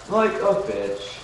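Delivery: hint of a harsh talent judge; Simon Cowell-style. Chat says he sounds like Simon Cowell, slow mock verdict. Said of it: "You sound like Simon Cowell".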